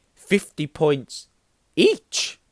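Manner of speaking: very high, very loud outburst, pitch swinging wildly. Reading a novel aloud, voicing McGonagall in a very high voice. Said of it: "said Professor McGonagall in a very high voice".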